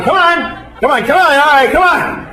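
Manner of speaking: high-pitched coaxing come on; yoga teacher. Retold or imitated. Yoga teacher chanting at strangers, high coaxing. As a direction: egg the class on like a peppy instructor.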